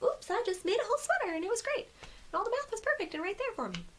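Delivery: sparkly magical designer. Retold or imitated. To viewers, mocking designers who find it effortless, high sing-song gush. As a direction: gush like it all just magically works. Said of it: "all sparkly and magical".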